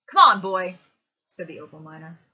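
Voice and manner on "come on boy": loud, impatient call; loud urging. A narrator's reading. Opal miner urging the boy out, loud call. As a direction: call out sharply to hurry him along.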